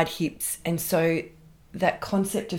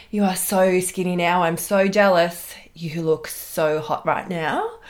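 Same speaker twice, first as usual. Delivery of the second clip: Paris Hilton voice; 4 dB louder than usual. Retold or imitated. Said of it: "a bit of Paris Hilton in there".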